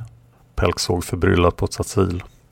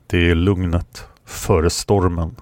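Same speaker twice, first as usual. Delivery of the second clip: ominous; slower than usual. Acted. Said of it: "sa Kron ödesmättat".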